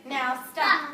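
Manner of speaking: loud, firm "Now stop" for the class to copy; commanding stop. Shown as a demonstration. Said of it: "Can everyone do that with me?".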